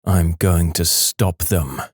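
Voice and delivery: low, slow sleepwalker voice; slow it right down, low, as a sleepwalker; slow low sleepwalking husband. Acted. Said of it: "And I said".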